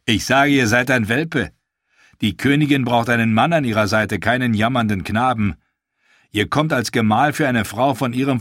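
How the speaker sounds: sneering mercenary insulting a rival suitor; sneering Daario. Acted. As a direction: taunt the boy with contempt. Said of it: "Dario Naharis lachte höhnisch".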